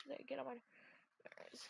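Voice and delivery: barely audible annoyed mutter; muttered under breath. Real, not acted. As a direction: drop it almost to nothing. Repeat of complaint, near-silent.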